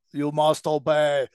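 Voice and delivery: lightly voiced evil giant; slow menacing giant command; Andre the Giant voice. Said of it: "That's my Andre the Giant evil cloak".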